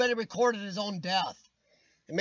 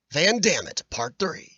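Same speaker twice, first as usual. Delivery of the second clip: trailer voice; 3 semitones lower, 4 dB louder than usual. Retold or imitated. Mock trailer title.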